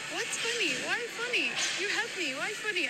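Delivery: mock baffled old woman. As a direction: imitate the old woman's puzzled protest. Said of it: "and she was like".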